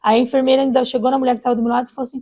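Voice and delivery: usual speaking voice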